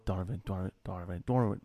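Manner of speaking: soft, repeated "Donovan", trying out Boston vowels; under the breath. Shown as a demonstration. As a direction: practise "Donovan" low and quiet, first vowel toward "Dawn". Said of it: "saying it under my breath".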